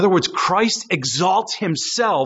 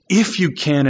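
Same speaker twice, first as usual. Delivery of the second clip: dry sarcastic echo of "If you can"; lightly mocking repeat; 4 semitones lower than usual. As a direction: throw the words back with mild sarcasm. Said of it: "in a sarcastic tone".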